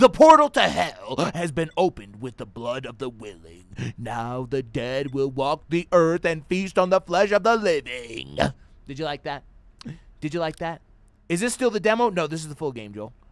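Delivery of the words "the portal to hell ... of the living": slow, dramatic, put-on cinematic narrator voice. Playing a game, reading the on-screen text aloud in a cinematic voice. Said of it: "Did you like how I read that in my cinematic voice?".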